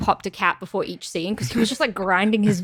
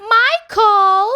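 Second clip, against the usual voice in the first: shouted name; 12 semitones higher, 6 dB louder than usual. Acted. Acting out Halloween scene.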